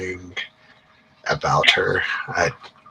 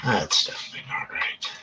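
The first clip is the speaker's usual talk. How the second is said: whispering; 6 dB quieter than usual. Real, not acted. GM mutters at error.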